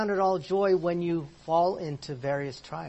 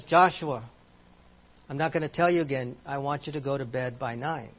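firm, louder command to a son; emphatic mom; 4 dB louder than usual. Retold or imitated. Mother ordering her son Joshua to bed, firm and louder. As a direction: lay down the law at bedtime. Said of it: "That's emphatic".

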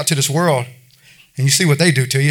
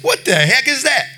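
laughing disbelief; 8 semitones higher than usual. Retold or imitated. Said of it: "I was like this".

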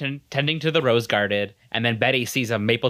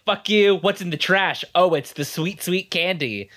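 higher, hammed-up indignation; mock anger; 4 semitones higher than usual. Retelling Ethel's anger at Betty, mock indignation. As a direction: act out a mock tantrum. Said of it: "Ethel gets so mad".

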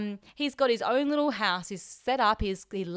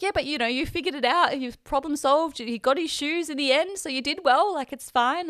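higher, firmer imitation of a mum reassuring; encouraging, pitched up, as retold; retold motherly reassurance; 5 semitones higher, 3 dB louder than usual. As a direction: talk them round, imitating a mum.

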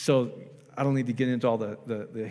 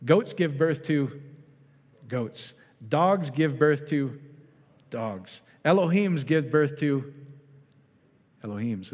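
put-on African accent; slower than usual. Preacher quoting a beloved bishop to his congregation, imitated African accent. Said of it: "in his African accent".

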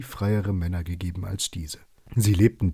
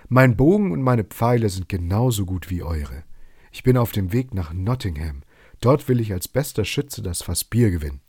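a touch of anger, a bit louder and firm; angry retort; 3 dB louder than usual. Acted. Robin answers the mocking foresters, mildly angry. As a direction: answer back stung by the mockery. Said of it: "Robin wurde wütend und antwortete".

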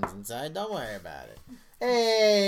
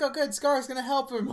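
put-on high excited child voice, louder; imitating a little kid; 10 semitones higher, 4 dB louder than usual. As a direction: play the hopeful little boy watching the movie. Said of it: "he's like".

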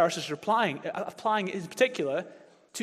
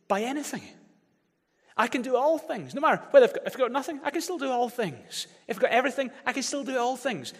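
voicing Paul; 5 semitones higher than usual. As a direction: proclaim it as Paul would. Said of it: "Paul was saying".

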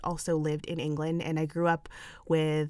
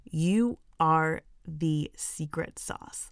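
emphatic hype; 6 dB louder, slower than usual. Real, not acted. Hyping up listeners emphatically.

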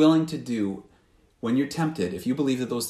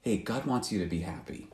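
soft tempting voice; 4 semitones lower, 9 dB quieter than usual. Retold or imitated. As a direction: lower and much softer sly coaxing. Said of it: "that voice tempting you and saying".

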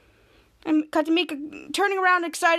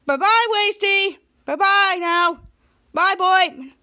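sing-song goodbye; 4 semitones higher, 5 dB louder, slower than usual. Retold or imitated. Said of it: "And Ray said".

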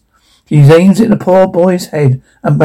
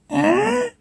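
startled; 11 dB quieter than usual. Acted. Startled queen reacts.

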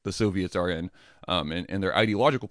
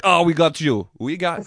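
higher, much louder, pouncing; mock triumphant gotcha; 8 semitones higher, 8 dB louder than usual. Interrogator to caught employee, a hammed-up loud gotcha. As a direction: snap the trap shut, gleeful.

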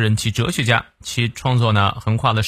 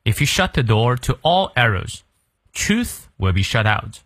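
slow American English with r sounded in "door"; careful American reading, pronounce the r in "door"; American-style model reading. Shown as a demonstration. Teacher repeating the sentence for learners, slow American pronunciation. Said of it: "再来一遍".

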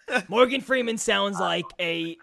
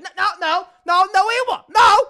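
much higher and louder, squealed no's; shrill mock-whine of a sore loser; crybaby denial; 12 semitones higher, 12 dB louder than usual. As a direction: wail like a baby who won't accept defeat. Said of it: "but was like".

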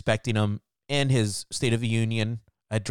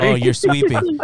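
high, loud oh of surprise; exasperated disbelief; surprised; 7 dB louder than usual. Real, not acted. Learns other is sweeping.

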